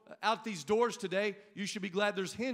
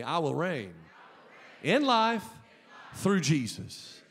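loud group declaration; 3 semitones lower, 4 dB louder, slower than usual. Real, not acted. Pastor leading the congregation's declaration. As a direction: swell up loud on IN LIFE. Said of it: "Say it with me".

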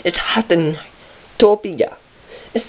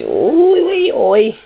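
loud high shout; 8 semitones higher, 4 dB louder than usual. Pretend.

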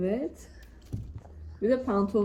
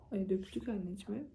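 whispering; 5 dB quieter than usual. Real, not acted. Whispered aside, spilled food.

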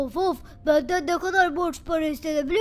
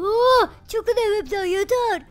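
angry shout; 4 semitones higher, 5 dB louder, slower than usual. Acted. Policeman throws them out.

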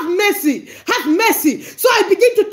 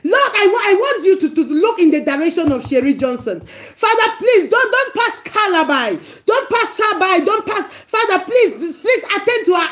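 rising, urgent plea to the Father; pleading prayer demo. Shown as a demonstration. Preacher demonstrating a prayer for Sherry, pleading. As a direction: beg God on her behalf. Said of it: "I'm interceding for someone".

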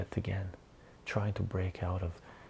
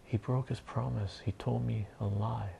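put-on slightly raised voice of an upset kid; mock crying child; 2 semitones higher than usual. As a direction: accuse like an aggrieved child. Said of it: "he's crying".

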